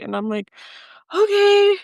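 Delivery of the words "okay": high, loud, near-crying okay; teary okay. Real, not acted. Answering the kind woman in the waiting room, near tears. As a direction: let the okay crack with relief. Overwhelmed, grateful reply.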